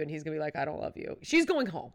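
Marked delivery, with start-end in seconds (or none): 0.6-1.2 muted mock reply. Imagined reply by the Bachelor.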